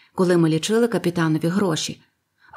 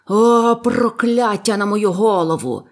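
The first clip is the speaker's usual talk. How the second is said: slow, loud anguished roar; roared curse; 2 semitones higher, 5 dB louder, slower than usual. A narrator's reading. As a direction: drag out the curse with full force. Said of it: "ревів він". (протяжний розпачливий рев)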